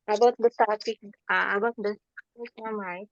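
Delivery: distorted, breaking-up mic signal. Real, not acted. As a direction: voice cutting in and out. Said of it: "your voice is breaking a little bit".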